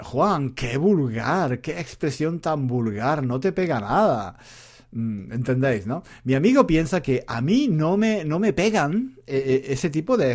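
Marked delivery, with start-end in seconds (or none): 0.0-4.4 disapproving friend. Retold or imitated. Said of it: "me dijo".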